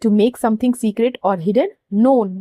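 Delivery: very slow, word by word dictation. Shown as a demonstration. Teacher dictating the definition for students to underline, very slow. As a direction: spell it out slowly so students can write. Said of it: "यहाँ पे underline".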